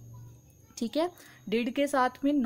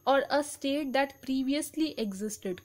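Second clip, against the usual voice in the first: very slow, word by word definition reading; slow dictation; much slower than usual. Shown as a demonstration. Teacher reading a definition to students, very slow and deliberate. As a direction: read it out slowly so students can write.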